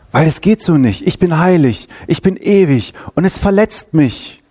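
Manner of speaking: Gott spricht Urteil. Retold or imitated. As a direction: announce judgment as a holy, wounded God. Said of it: "Und er sagt". (als Gott, der feierlich Gerechtigkeit ankündigt)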